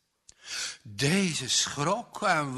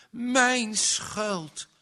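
high, loud repeated cry; mother crying out her guilt, high and loud; anguished cry; 7 semitones higher, 4 dB louder than usual. Acted. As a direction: wail it out again, much higher. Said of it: "schreeuwde ze".

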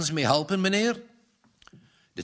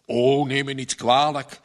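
louder, embarrassed apology; apologetic; 6 dB louder than usual. A narrator's reading. Salesman apologizes to the maid, embarrassed. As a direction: hurry to excuse yourself. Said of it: "verontschuldigde de heer Sikkema zich".

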